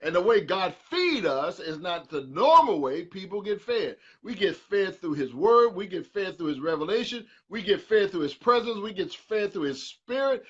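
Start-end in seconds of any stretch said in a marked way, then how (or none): 4.2-10.4 climbing higher with each repetition; mounting preacher's fervour; building preaching refrain. Real, not acted. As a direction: build the refrain toward a peak.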